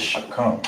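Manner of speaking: shakam, sha-KAM. Shown as a demonstration. Teacher modelling the Hebrew word shakam. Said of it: "How you say that is".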